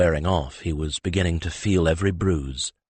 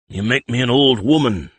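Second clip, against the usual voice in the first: complaining; 6 semitones higher, 6 dB louder than usual. A narrator's reading. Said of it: "Alberich complained".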